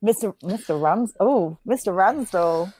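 slow, drawn-out swoon over the name. Pretend. Friend mock-swooning over his teacher title, slow drawn-out.

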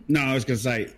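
talking past a tickle in the throat; throat catching, about to cough; something in throat. Real, not acted. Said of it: "got something in my throat".

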